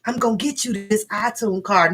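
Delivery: soft, sugary put-on voice; mock sweet girlfriend. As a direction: coo it to him, softly and sweetly. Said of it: "'cause I didn't say".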